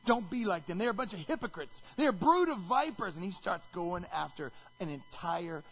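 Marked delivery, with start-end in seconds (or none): 0.1-3.2 building from plain to a loud high brood of vipers; growing anger. Acted. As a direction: climb in volume to the vipers. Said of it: "his voice gets louder and louder".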